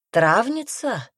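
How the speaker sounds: high, drawn-out questioning surprise; girl's voice lifting in slow disbelief; surprised. A narrator's reading. Girl recognises the herb woman, surprised. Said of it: "удивилась девушка".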